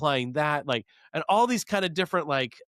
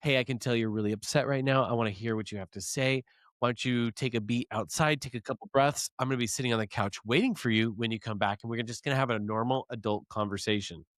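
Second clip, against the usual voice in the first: softer, a mildly imitated soothing calm; calmest voice; 4 semitones lower, 3 dB quieter, faster than usual. Wife calming her angry husband, imitated soothing calm. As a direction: talk him down gently, unhurried. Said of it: "like, calmest voice".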